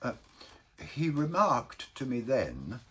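plaintive Baker. Acted. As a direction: pick the story back up meekly.

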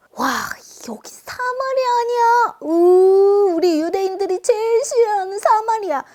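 a hint of sneering travelers, some loud groans; disgusted travelers. Travelers sneering at Samaria and avoiding it, mildly hammed disgust.

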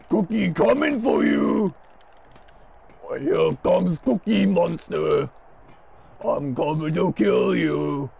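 lightly voiced growly monster menace; Cookie Monster. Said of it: "I can't keep doing Cookie Monster's voice".

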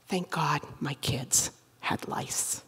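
slow, breathy whisper of thanks; whispered relief. Acted. Parent spotting the lice bottle, slow whispered relief. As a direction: hush it like a secret blessing.

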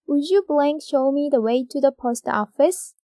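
very slow, word by word read; slow dictation. Shown as a demonstration. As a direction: dictate slowly for the class. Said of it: "다음에". (받아쓰기처럼 아주 천천히)

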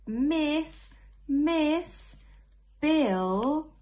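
high, loud calling out; child calling miss. Acted. Teacher reading aloud, voicing a pupil calling miss. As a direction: call for the teacher's attention.

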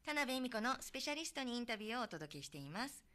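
polished presenter's announcement; radio programme introduction. Real, not acted. Host reintroducing the second half to listeners, radio announcer delivery.

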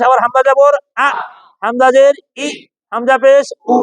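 আ, ই, উ each short and hard after its letter name; firm hamza drill. Shown as a demonstration. Teacher repeats the drill for class, crisp glottal আ, ই, উ. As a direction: punch out আ, ই, উ with abrupt endings. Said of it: "শক্তভাবে".

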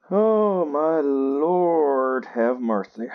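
high, loud start then settling; an exasperated oh my Lord that calms down; exasperated exclamation. Real, not acted. Sighing at the game, exasperated then calming.

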